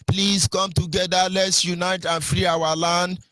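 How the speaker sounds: slow, level-pitched mock appeal; drawn-out quoted plea. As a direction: stretch each word into an imitated plea.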